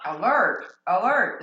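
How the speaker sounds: loud alarm call; alarm shout. Acted. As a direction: blare it like an alarm. Acting an alarm going off.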